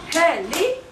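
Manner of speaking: "Heli" in two separate beats, rising at the end; syllable by syllable. Shown as a demonstration. Teacher leads everybody together, syllable by syllable. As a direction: model "Heli" for repeating, syllables apart.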